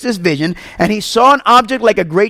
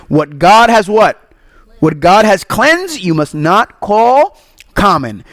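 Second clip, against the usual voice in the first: slow, weighty pronouncement; slow solemn divine voice; slower than usual. Acted. God declaring to Peter, slow and solemn. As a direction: lay down each word like a decree. God's voice speaking slowly.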